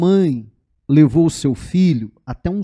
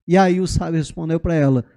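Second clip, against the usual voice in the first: ordinary delivery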